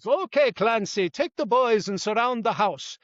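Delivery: lightly imitated cartoon Irish cop accent. Retired cop quoting a cartoon policeman, light Irish accent. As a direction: quote the police officer with a hint of Irish accent. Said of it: "he's got an Irish accent".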